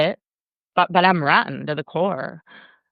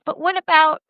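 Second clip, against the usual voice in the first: mock contrarian; 11 semitones higher than usual. Imagined contrarian objection.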